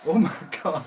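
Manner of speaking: loud startled cry; shocked yell. Real, not acted. Near crash into wall.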